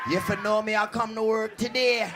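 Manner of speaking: indignant Jamaican tirade, building to a shout; Jamaican accent. Acted. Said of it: "Don't get a Jamaican".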